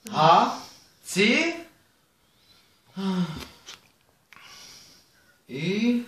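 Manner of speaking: slow, halting letter-by-letter; backwards spelling. Real, not acted. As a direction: puzzle out each letter slowly. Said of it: "meinen Nachnamen rückwärts buchstabieren". (zögerlich rückwärts buchstabieren)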